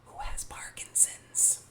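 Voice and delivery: slow, hushed reveal; grave whisper. Real, not acted. Vlogger revealing Billy Connolly's illness, slow hushed whisper.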